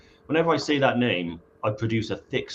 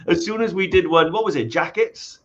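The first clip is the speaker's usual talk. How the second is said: talking through laughter, higher and louder; giggling through the story; laughing; 8 semitones higher, 8 dB louder, slower than usual. Real, not acted. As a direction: laugh the words out. Laughing while telling a story.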